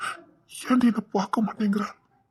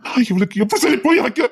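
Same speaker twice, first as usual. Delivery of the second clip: despairing cry; 3 semitones higher, 6 dB louder than usual. Acted. Man repeats in despair.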